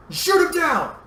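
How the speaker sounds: loud, high urgent order; forceful high-pitched cry; shouted command. A narrator's reading. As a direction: yell the order to attack. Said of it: "Anakin shouted".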